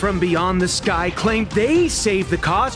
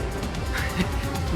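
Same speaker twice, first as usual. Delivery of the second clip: soft, short scoff; quiet, bitter chuckle; scornful laugh; 7 dB quieter than usual. Acted. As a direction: laugh it off under your breath. Scornful laugh at tourists remark.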